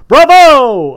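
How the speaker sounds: loud, high bark from the gallery; barked bravo. A narrator's reading. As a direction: shout it down from the balcony. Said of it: "a bass barked from somewhere on high".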